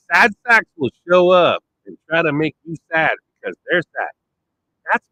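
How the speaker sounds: usual speaking voice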